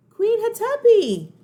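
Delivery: high, loud, slow call; slow loud summons. Acted. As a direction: call out her name across the chamber. Calling the ghost queen.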